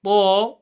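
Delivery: "ta" full-mouthed with unmoved lips; lips still on TA. Shown as a demonstration. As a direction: say "ta" with the tongue only, lips still. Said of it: "try not to move your lips".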